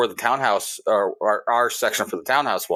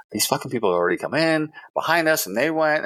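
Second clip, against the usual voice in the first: higher-pitched, exasperated complaint; losing it; 6 semitones higher than usual. Retold or imitated. Diner complaining others were seated first, losing it. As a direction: retell an angry protest, pitch raised. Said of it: "I lost my shit again".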